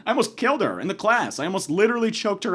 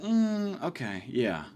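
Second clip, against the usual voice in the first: hesitant; 2 semitones lower, 7 dB quieter, much slower than usual. Retold or imitated. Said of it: "she kinda gave me a look".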